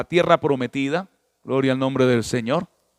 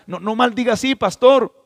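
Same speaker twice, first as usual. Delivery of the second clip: pleading; 6 semitones higher than usual. Retold or imitated. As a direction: beg him to stop, climbing up. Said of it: "que le digan a un pastor".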